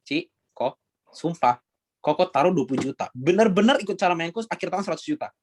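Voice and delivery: earnest pitch to persuade, swearing it's true; convincing. Shown as a demonstration. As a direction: sell it like you truly believe it. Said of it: "kan kayak orang meyakinkan". (meyakinkan, penuh keyakinan)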